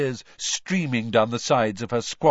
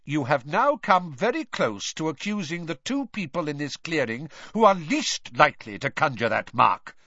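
raised, stern rebuke; barking Mister Crouch; 6 semitones higher, 3 dB louder than usual. A narrator's reading. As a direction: bark it out with controlled anger. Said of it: "barked Mister Crouch".

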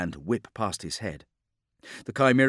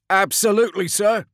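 high, loud acknowledgement; keen military shout; 12 semitones higher, 8 dB louder than usual. Acted. Driver answering captain over intercom, keen military shout. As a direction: shout back eagerly to your officer.

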